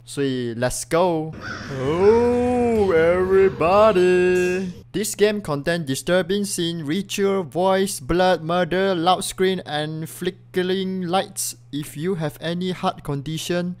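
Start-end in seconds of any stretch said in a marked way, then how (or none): 1.8-13.8 mock announcer read. Reads the game warning.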